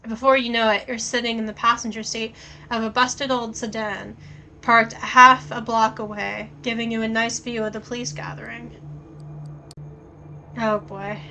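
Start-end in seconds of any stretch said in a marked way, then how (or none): 0.1-8.8 even game-text read; story narration. A narrator's reading. Reads the game text aloud.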